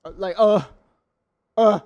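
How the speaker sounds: short, loud groan; exasperated groan. Real, not acted. Fed up with the camera frame, exasperated groan. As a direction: let out a frustrated "uh".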